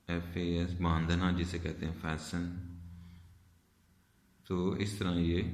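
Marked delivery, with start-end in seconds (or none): 2.0-2.5 "फैशन" for fasten, said "fassen"; silent T. Shown as a demonstration. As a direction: say "फैशन" as fas-en, leaving out the t. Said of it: "हम इसे silent कर देते हैं".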